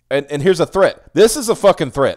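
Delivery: angry. Real, not acted. Outraged at threatening post.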